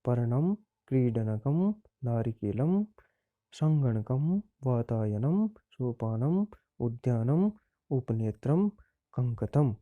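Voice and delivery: each Sanskrit word said clearly with a pause after it; careful word-by-word model reading; pronunciation drill. Shown as a demonstration. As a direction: read out the word list like a teacher modelling फलम, गृहम. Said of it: "उच्चारण करना है".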